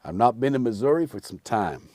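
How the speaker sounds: lightly voiced Westerner; Western character. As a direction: put on a hint of cowboy. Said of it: "I could play any Western character".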